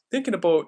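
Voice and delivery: "about" said as "a boat", Canadian style. Retold or imitated. Streamer repeating how Canadians say it, "about" as "a boat". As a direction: round the vowel of "about" into a long "oh". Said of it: "people mimic Canadians being, like, saying "a boat".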